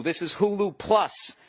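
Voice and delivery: Plus drawn out and slowed; stress on Plus. Shown as a demonstration. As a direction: lean on Plus. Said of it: "They told me to stress plus".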